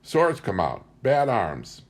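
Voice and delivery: lightly voiced high old woman; old tribeswoman. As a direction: scold the picnic in a mild old woman voice. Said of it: "she included the entire picnic".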